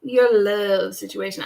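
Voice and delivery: teasing, drawn-out delivery; drawn-out, playful. Retold or imitated. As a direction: playfully repeat it with LOVE stretched. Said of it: "wanted to say it like that".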